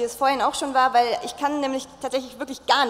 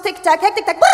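clock ticking sounds, speeding up; 3 semitones higher, 4 dB louder than usual. Pretend. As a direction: tick like a nervous clock. Ticking clock refrain, laughing. (tickende Uhr, hektisch)

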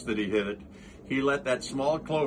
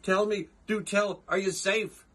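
Horton crying out; 7 semitones higher than usual. Acted. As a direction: call out in joyful relief. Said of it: "cried the elephant".

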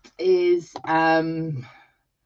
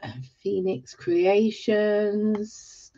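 normal talking voice

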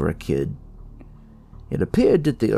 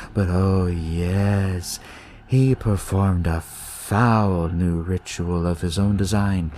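slow, lightly voiced eerie kid, savoring words; sinister young leader explaining, unhurried; a hint of a sly cult kid, slow; creepy cult kid.

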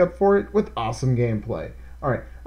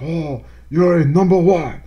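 loud, put-on mock Asian accent; mock the stereotyped Asian accent he's glad isn't there; mock thick Asian accent; 5 semitones higher, 6 dB louder than usual. Mocking a stereotyped Asian accent the game avoids, loud. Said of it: "the crazy thick Asian accent".

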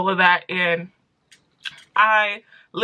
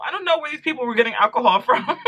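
laughing; 4 semitones higher, faster than usual. Real, not acted. Laughing at the memory.

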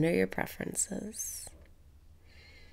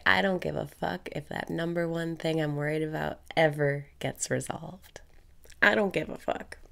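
carefree affirmation; faster than usual. Shown as a demonstration. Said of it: "Breathe out and say".

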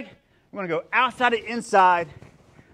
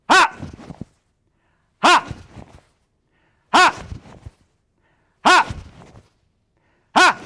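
short, high, explosive "ha"; punchy kihap shout on each strike; martial arts yell; 10 semitones higher, 6 dB louder, slower than usual. Shown as a demonstration. Instructor cueing the class to switch punches, yelling. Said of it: "So when I yell".

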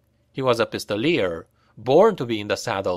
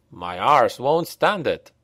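slow moan. Acted. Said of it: "moaned Hals".

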